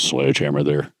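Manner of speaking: low gravelly growl of a phone caller; old Marine on the phone asking for Sledgehammer, gravelly. Retold or imitated. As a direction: drop deep and rasp it out. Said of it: "it's this gravelly voice".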